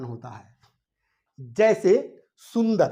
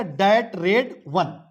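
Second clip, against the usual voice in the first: slow demo; much slower than usual. Shown as a demonstration. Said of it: "थोड़ा सा एक step बढ़ गया".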